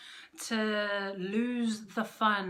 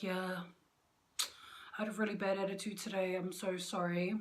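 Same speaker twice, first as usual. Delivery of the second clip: soft apology; 3 semitones lower, 7 dB quieter than usual. Retold or imitated. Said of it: "I'd admit my flaws and I'd be like".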